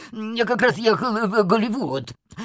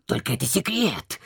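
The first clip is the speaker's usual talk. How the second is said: hushed confession; 4 semitones lower, 5 dB quieter than usual. Acted. Confessing a secret.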